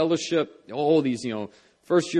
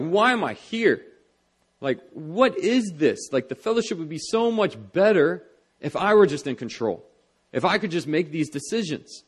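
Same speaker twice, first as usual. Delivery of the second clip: frustrated; 2 semitones higher than usual. Retold or imitated. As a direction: relive a frustrated complaint to yourself. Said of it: "so frustrated".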